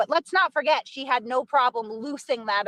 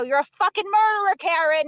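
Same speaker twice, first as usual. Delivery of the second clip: high, louder retold accusation; 5 semitones higher, 4 dB louder than usual. Accusing Karen down the stairs, retold angry accusation. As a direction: hurl the accusation, reenacting the quarrel.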